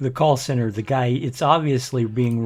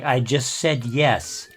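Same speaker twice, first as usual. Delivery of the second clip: slow, patient, over-deliberate insistence; drawn-out mock-weary I said yes; exasperated repeat; slower than usual. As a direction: spell it out slowly, fed up with the caller. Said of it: "And I'm like".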